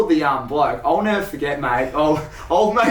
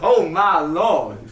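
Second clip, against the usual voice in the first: slow Southern American oh my Lord; much slower than usual. Retold or imitated. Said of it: "this southern guy".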